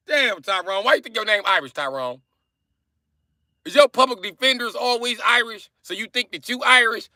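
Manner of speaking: high mock-exasperated whine; squeaky, hammed-up incredulity; high-pitched disbelief. Mock scolding of a viewer.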